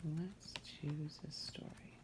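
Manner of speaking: slow hushed whisper. Real, not acted. Reader whispering to the child before the tale. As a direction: whisper it like a secret.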